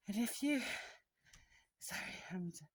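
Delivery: breathless after a climb; out of breath. Real, not acted. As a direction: still catching her breath. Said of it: "still catching my breath".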